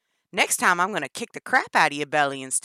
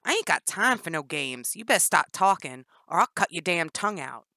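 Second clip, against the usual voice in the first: loud furious threat; yelled threat; 12 dB louder than usual. Acted. Danny yelling threats at Jennifer. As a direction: yell the threat at her. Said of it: "Danny yelled".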